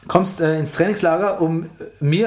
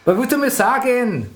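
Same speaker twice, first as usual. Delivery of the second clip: put-on Austrian accent; 4 semitones higher than usual. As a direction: brag in a thick Austrian accent. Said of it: "Mach Mario Götze mit österreichischem Akzent".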